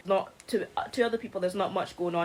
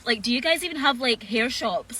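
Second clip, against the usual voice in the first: incredulous commenter; 3 semitones higher than usual. Retold or imitated. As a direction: imitate a baffled online commenter. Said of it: "I seen a comment that was like".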